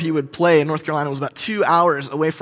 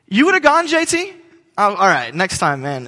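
friend's nudge; 3 semitones higher than usual. Retold or imitated. Imitating a friend who urged him to come. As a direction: playfully imitate a pushy friend.

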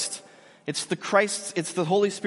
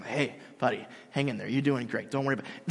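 soft, lower reassuring voice; gentle encouragement; 5 semitones lower, 4 dB quieter than usual. Retold or imitated. Assistant coach consoling a crying player, softly. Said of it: "the assistant coach".

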